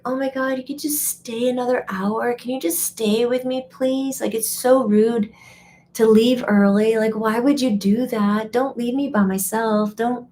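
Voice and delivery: a mock needy friend guilt-tripping; clingy friend pleading. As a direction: beg them to stay a little longer. Imitating clingy friend asking to stay.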